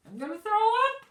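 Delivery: high, loud fake-sick wail. A narrator's reading. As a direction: shout it out, pretending to be sick. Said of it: "Ivy said loudly".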